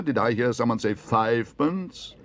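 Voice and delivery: slow, drawn-out rising question; incredulous auctioneer. A narrator's reading. Auctioneer checking a tiny bid with the hall, questioning slowly. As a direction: query the bid in disbelief. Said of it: "repeated the auctioneer".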